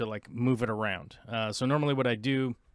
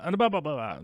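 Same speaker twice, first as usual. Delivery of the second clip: higher mock blah; 3 semitones higher, faster than usual. Shown as a demonstration.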